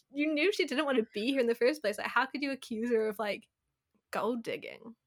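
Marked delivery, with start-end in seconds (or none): 4.1-5.0 whispering the word; whispered. Real, not acted. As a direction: drop to a whisper.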